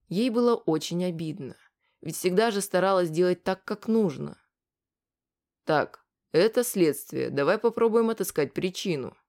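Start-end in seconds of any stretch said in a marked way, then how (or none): 5.6-9.2 calm. Acted. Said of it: "спокойно сказал Вадим".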